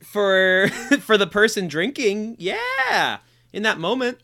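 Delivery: real laughter through the words; laughing. Real, not acted. Laughing while answering the host's question.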